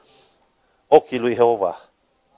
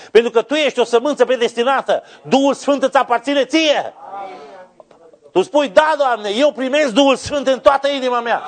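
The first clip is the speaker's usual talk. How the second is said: high, ringing pulpit cry; full-force preaching; 13 semitones higher, 5 dB louder than usual. Real, not acted. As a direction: drive each promise home at the top of the voice. (predică strigată, cu toată forța)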